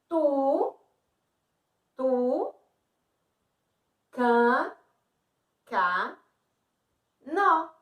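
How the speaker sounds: TU, CA, NO one at a time, long pauses between; syllable by syllable. Shown as a demonstration. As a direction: isolate and hold each syllable, TU, CA, NO. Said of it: "Vamos observar as sílabas dessa palavrinha".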